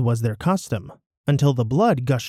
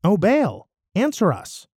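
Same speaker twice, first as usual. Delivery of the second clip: a high cry to Baal, voice pitched way up; shouting; 7 semitones higher than usual. A narrator's reading. Baal's prophets cry out to their god, high and calling. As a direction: call up to a silent god, pleading.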